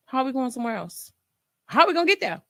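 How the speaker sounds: high, incredulous worry; worried thought. Retold or imitated. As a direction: wonder how on earth. Inner worry, higher pitch.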